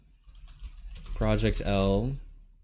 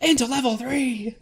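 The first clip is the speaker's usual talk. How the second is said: notification announcer voice; 13 semitones higher than usual. Retold or imitated. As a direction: call it out like an alert. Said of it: "notification on his stream".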